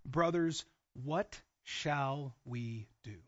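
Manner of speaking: low, soft, very slow question; stricken plea. Acted. Crowd cut to the heart asking the apostles, stricken. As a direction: let each word fall slowly, subdued.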